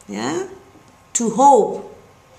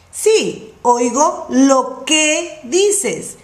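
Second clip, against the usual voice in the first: slow model answer; slower than usual. Shown as a demonstration. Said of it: "teacher models the answer slowly".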